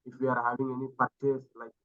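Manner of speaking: very soft, fading away; barely audible. Real, not acted. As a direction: speak so quietly it barely carries. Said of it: "Your voice is very low".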